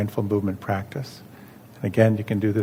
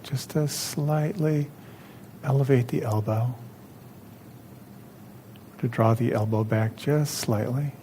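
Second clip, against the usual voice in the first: calm, measured instruction with long pauses; guided meditation. Real, not acted. Leads second guided exercise.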